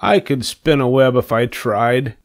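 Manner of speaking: a little pig showing off; boasting. A narrator's reading. Pig boasts to spider about spinning, mildly boastful. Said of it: "said Wilbur, boasting".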